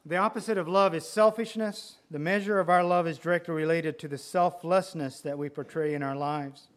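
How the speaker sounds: preaching emphasis. Acted. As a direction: drive the point home.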